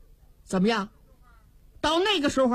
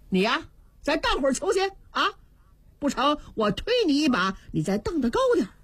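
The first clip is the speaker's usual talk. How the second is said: gleeful teasing; 3 semitones higher, faster than usual. Acted. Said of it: "东方朔乐了".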